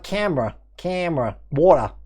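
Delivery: words in an Australian accent. Shown as a demonstration. Streamer showing his mixed accent, Australian pronunciation. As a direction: let the Australian vowels come out. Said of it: "the Australian comes out".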